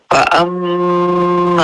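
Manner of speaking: فأما with the doubled mim held long and nasal. Shown as a demonstration. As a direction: hold the ghunna on the mim in فأما. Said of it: "मा को पूरा करना है".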